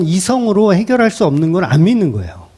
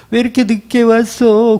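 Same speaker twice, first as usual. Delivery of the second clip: higher-pitched wail of a hired mourner; bigger mock wail; 5 semitones higher than usual. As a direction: turn up the show of lamenting. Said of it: "곡을 더 크게".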